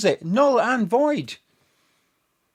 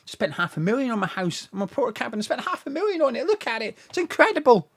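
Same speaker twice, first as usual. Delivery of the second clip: mock brag; 2 semitones higher than usual. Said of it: "you've got to brag".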